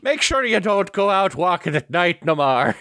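lightly hammed Irish doorman brogue; mock Irish accent. Co-host joining in on the doorman bit, mock Irish accent. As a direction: play at being an Irish doorman. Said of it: "always, like, Irish or Scottish".

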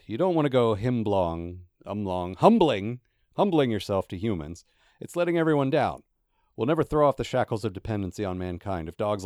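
a stern little street dog lecturing; severe Gaspode. Acted. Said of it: "said Gaspode severely".

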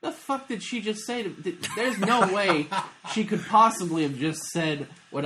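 high, stretched-out disbelief; incredulous inner voice. Retold or imitated. Host recalling his stunned thought at a customer, incredulous. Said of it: "thing in my brain where I'm like".

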